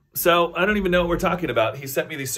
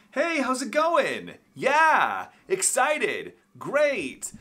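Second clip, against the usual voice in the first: higher, slower, bright phone voice; phone call voice; 9 semitones higher, much slower than usual. Shown as a demonstration. Vlogger demos his higher chipper phone voice. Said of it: "you will hear my voice change dramatically".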